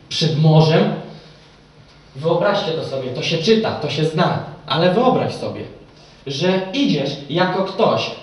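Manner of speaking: loud, driven sermon delivery, pressing each phrase; fervent preaching. Acted. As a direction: preach it to the whole hall with full force. Preacher addresses the congregation.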